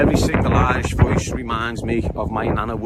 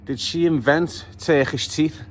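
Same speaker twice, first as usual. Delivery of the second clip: slowed, each word drawn out in disbelief; mock shocked question; slower than usual. Reacting to her teeth on the grid, slow incredulous question. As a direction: ask "invent" slowly, in a rising, incredulous tone. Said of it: "you get to the grid and go".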